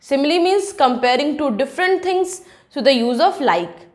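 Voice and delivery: very slow, word by word, like dictation; slow English explanation. Shown as a demonstration. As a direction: spell out each word slowly for the class. Teacher defines simile in English.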